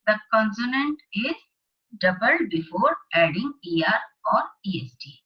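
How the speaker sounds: slow, deliberate classroom dictation; slow worksheet read-aloud. Acted. Teacher reading the worksheet aloud to class eight students, slow and deliberate. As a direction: read each phrase out slowly for the class. Reads the grammar rule.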